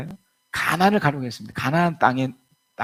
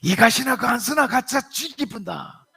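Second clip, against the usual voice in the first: much higher, slow blunt Gyeongsang retort; hammed-up Gyeongsang-accent husband; gruff Gyeongsang husband; 9 semitones higher, 4 dB louder than usual. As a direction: Gyeongsang husband scolding his wife. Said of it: "경상도 남편이 벌떡 일어나더니".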